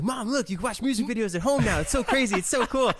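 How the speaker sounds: put-on high, eager kid voice; excited kid. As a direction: gush like a proud kid. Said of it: "I'm like".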